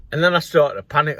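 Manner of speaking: ordinary talk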